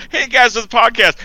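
high, loud mock intro; podcast host greeting. Friend imagines next week's show, mock host greeting. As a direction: open the show with hammed-up cheer.

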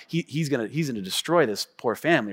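low, soft anticipation; gleeful inner thought. Retold or imitated. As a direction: hush it like a secret prediction. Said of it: "I'm like".

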